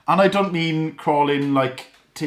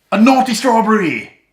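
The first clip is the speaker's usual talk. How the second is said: much higher and louder, a gleeful reveal; joke punchline; 9 semitones higher, 7 dB louder than usual. Real, not acted. Dad telling viewers a dad joke, gleeful higher and louder punchline. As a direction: land the punchline with a big grin.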